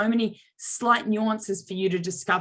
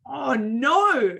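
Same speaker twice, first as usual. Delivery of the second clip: exaggerated dismay; 4 semitones higher than usual. Shown as a demonstration. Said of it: "Or I could choose to go".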